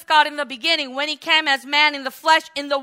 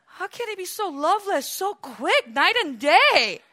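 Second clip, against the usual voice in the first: shocked gasp; 4 semitones higher than usual. Acted. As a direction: gasp and sound stunned. Shocked reaction after the rebuke.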